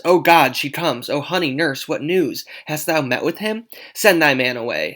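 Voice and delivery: put-on eager, loud young girl; excited Juliet. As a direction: burst out with eager questions. Juliet eagerly greets nurse.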